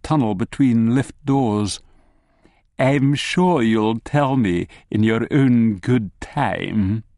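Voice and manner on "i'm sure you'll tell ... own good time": unctuous. Acted. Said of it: "he says unctuously".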